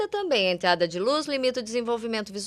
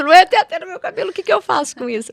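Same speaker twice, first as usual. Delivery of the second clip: exasperated inner voice; 7 semitones higher, 8 dB louder, much faster than usual. Retold or imitated. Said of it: "eu penso".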